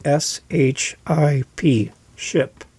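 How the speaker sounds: S H I P spelled slowly, then ship said clearly; careful slow spelling of ship. Shown as a demonstration. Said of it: "I want you to understand they're saying".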